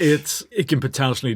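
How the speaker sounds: laughing through the words. Real, not acted. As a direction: chuckle while speaking. Laughing at his own joke.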